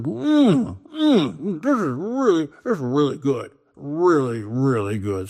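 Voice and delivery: savoring ice cream. Acted. Mountain man savoring ice cream.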